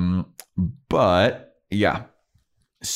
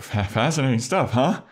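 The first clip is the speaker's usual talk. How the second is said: stammering, higher-pitched mock small talk; awkward filler with a raised "huh"; 6 semitones higher than usual. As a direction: trip on the first word, awkwardly. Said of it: "he's all awkward".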